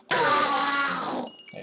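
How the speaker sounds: very high, soft, slow; high slow cooing coax; high sing-song coax. Acted. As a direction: coo it like to a pet. Coaxing mob, high voice.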